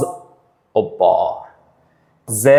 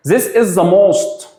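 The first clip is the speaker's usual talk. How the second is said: slow model sentence; 5 semitones higher, much slower than usual. Shown as a demonstration. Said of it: "teacher models example".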